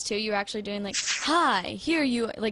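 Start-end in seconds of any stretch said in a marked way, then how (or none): 1.2-2.3 slow mock DJ greeting; cheesy radio voice. Daughter mimicking her dad's DJ act, mock cheesy radio voice. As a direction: imitate a cheesy radio host, drawing it out. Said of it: "doing the cheesy radio voice".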